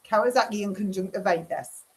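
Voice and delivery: lightly put-on Newcastle accent. Shown as a demonstration. Vlogger showing viewers her party-piece phrase, Newcastle accent. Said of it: "my Newcastle one".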